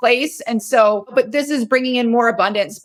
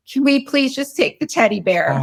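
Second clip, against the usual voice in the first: put-on higher, lightly childlike request; inner child pleading; 4 semitones higher than usual. Inner child asking to bring teddy, gently pleading. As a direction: ask sweetly as a little kid would. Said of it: "she said".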